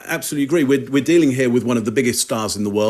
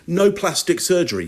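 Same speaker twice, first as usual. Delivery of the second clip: retold firm denial, pitched higher; emphatic denial; 6 semitones higher than usual. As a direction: imitate an emphatic denial, lightly. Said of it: "Very emphatic".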